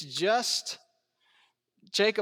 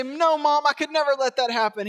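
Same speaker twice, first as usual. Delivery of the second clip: devoted son; 6 semitones higher, 5 dB louder than usual. Pretend. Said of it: "he doesn't say".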